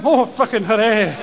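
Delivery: flat, deadpan mock cheer; sarcastic hooray. Schoolboy sneering at the teacher's swim cheer. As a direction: sour sarcasm, voice dropped low.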